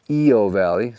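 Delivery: "Io" said EE-oh, I as an E; "Io" the Hawaiian way, ee-oh; correct pronunciation. Shown as a demonstration. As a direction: say "Io Valley" with the I as ee. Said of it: "So the I is an E".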